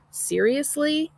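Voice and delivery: slow, high disbelieving; incredulous. A narrator's reading. Teen scoffing at mom's remark, slow high disbelief. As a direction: drag it out in disbelief.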